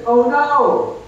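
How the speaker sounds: high, loud hammed-up "oh no"; playful mock alarm; mock dismay. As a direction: play up the panic for a laugh. Mock dismay, God gives no answer.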